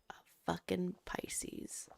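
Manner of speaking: hushed disgusted whisper, slow. Real, not acted. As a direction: whisper it with scorn. Disgusted aside about star sign.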